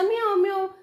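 high-pitched mock meowing; imitated cat meow. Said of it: "एवढा ओरडायचा". (मांजराच्या ओरडण्याची उंच नक्कल)

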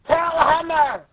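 high, slow battle call; challenging Tontada. Acted. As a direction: halt them, then call the attack. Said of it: "And then Tontada's like".

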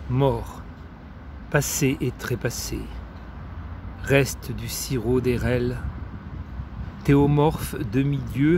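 measured poem recital with deliberate pauses; poetry reading. Acted. Reading Maria Stepanova's poems to friends, measured poetry recital. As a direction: recite it line by line, letting each phrase stand. Reads another poem extract.

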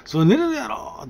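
caught-out indignant surprise; shocked outburst. Retold or imitated. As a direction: blurt it out in disbelief. Shocked at senior's earplugs.

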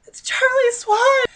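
half-laughing, half-crying the name out. Real, not acted. Reader to viewers, laughing in disbelief at the name. Repeated recognition, near tears laughing.

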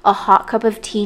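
hoarse, worn-out voice after hours talking; a tired, hoarse throat. Real, not acted. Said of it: "I still feel like I sound so hoarse".

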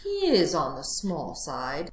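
slow, considering fox; mildly reflective remark; musing to himself. Acted. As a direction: weigh it up privately. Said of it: "the fox said to himself".

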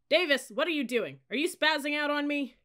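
high, loud reprimand; berating. A narrator's reading. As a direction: chew out the cadet in their face. Cadet leader berating a new cadet.

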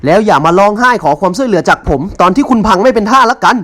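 a high, loud furious yell; furious shout. Acted. Rejected rival shouts at the wife before storming out, furious. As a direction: shout it at her in a rage. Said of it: "ตะโกนอย่างโกรธเกรี้ยวว่า".

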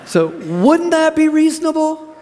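high, loud and slow, drawing the question out; preacher demanding a response; rousing challenge. Real, not acted. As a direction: press them again for an answer. Preacher repeats challenge louder.

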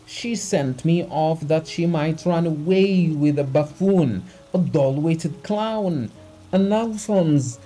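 high, loud, overwrought tirade; distraught crying out. A narrator's reading. Betrayed husband raving to the doctor about his wife, distraught cry. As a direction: rail at the betrayal, voice pushed high. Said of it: "cried Abugin, laughing, crying".

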